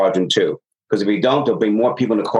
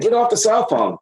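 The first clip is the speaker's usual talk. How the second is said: mock stern order; 12 semitones higher than usual. Supervisor retells his order.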